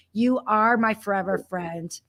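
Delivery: quiet, tender repeat; soft and sincere. Real, not acted. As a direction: say it gently, from the heart. Repeats line softly, sincerely.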